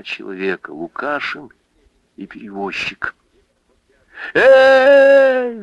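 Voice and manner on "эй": very high, loud call across water; shouting into the wind. Acted. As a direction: hail him over the river. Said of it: "закричала Анфиса".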